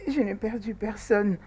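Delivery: low, tearful denial. Acted. Crying girl tells her friend she lost nobody, tearful. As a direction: answer through tears. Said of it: "Pourquoi tu pleures?".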